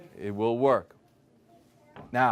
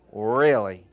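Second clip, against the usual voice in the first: louder, emphatic "Really?" that shuts down the doubt; confident reply; 3 semitones lower, 6 dB louder than usual. Retold or imitated. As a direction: answer the doubter with certainty. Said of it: "And I said".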